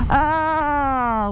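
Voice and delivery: high laugh at himself; embarrassed laugh. Real, not acted. Laughing at his own mistake.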